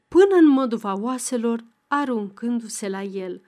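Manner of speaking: plain reading voice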